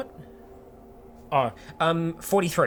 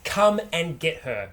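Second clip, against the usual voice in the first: taunting call; 3 semitones higher, 3 dB louder, much slower than usual. Acted. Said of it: "I'm gonna yell out".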